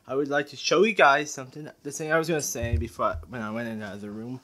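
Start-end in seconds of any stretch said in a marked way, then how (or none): 1.8-4.4 breathless, rushed talking; out of breath. Real, not acted. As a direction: talk while catching your breath. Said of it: "I'm out of breath".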